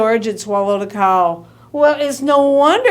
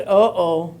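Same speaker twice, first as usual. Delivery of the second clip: concerned vet; 6 semitones lower than usual. Acted. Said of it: "the doctor said".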